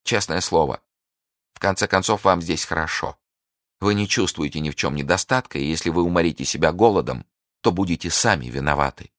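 lightly mocking indifference; a hint of a sneering captor. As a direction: captor shrugging her off, mildly mocking. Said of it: "насмешливо".

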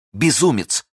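high scornful cry; sharp contemptuous outcry; exclaiming. A narrator's reading. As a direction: hurl the word at him. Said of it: "воскликнула миледи".

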